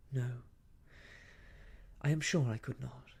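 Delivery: measured, with firm stress; quiet emphasis. A narrator's reading. Young woman assuring him of her good home, quiet emphasis. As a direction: answer with understated emphasis. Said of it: "answered quietly and with emphasis".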